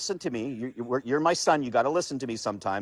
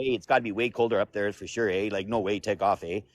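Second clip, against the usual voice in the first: hammed-up Canadian accent, trailing lower; mock Canadian accent; 4 semitones lower than usual. Joking about cold up north, mock Canadian accent. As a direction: lay on the stereotyped Canadian eh.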